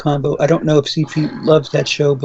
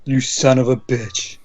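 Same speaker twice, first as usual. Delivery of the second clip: put-on Arnold accent; 4 semitones lower than usual. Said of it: "without one Arnold accent".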